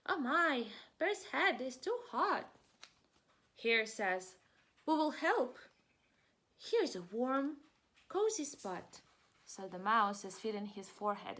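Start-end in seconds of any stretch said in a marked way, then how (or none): 0.0-2.5 high, louder worried mouse; squeaky mouse alarm. Acted. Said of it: "Mouse mutters". 4.8-9.0 high, louder eager hare; high cheerful hare voice; helpful hare. Acted. Hare's line in story.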